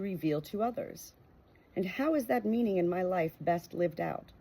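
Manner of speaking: steady, earnest reading of a Christian book. Acted. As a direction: read it aloud like a devotional audiobook.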